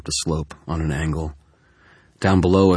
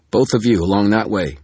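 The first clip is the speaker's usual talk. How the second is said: calling from a distance; 5 semitones higher, 7 dB louder than usual. Acted. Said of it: "from somewhere in the distance".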